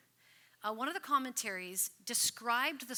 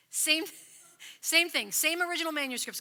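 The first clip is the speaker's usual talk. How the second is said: laughing; 6 semitones higher, 7 dB louder than usual. Real, not acted. Laughing reassurance about translations.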